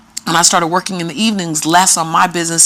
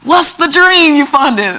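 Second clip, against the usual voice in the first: higher and louder, eager, slowing on the question; eager group of tellers asking; eager curiosity; 5 semitones higher, 4 dB louder than usual. Retold or imitated. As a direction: tellers dying to know. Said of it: "they were like".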